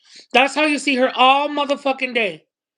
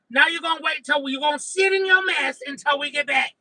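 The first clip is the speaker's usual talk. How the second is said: hammed-up mom scolding. Mom threatening her daughters in the car, mock scolding. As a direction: threaten the kids, half-yelling.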